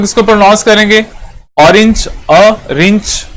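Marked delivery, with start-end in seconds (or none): 1.6-3.3 ऑरेंज broken up as "अ" then "रिंच", the opening vowel set apart; teacher splits ऑरेंज to show its vowel start; word split into sounds. Shown as a demonstration. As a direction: pull the first vowel off the word, then say the rest. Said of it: "एन का sound जो है वो हमें दे रहा है".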